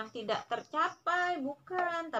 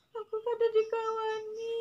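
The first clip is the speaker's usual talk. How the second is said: put-on higher, whiny child complaining that nobody will play; sulky child; 9 semitones higher than usual. Mother imitates a sulking child nobody plays with, whiny and higher. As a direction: pout it like a left-out little kid.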